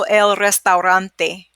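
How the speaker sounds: el restaurante said slowly; slow take of el restaurante. Shown as a demonstration. Teacher contrasting slow and fast restaurante for students, slowly. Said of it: "when you're saying it fast".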